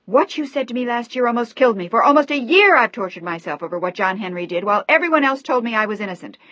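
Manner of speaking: loud, high, tearful fury; sobbing rage. A narrator's reading. Daughter sobbing and screaming at her father, furious. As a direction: scream through tears. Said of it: "She began to sob hysterically".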